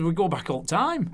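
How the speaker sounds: broad Lancashire storytelling voice; chatty Lancashire impression; Lancashire accent. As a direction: put on an older Lancashire man. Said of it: "So it's my Lancashire accent there".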